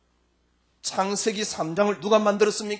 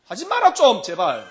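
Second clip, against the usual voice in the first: pleading Jesus; 3 semitones higher, 5 dB louder than usual. Acted. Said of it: "이럴 겁니다, 아마".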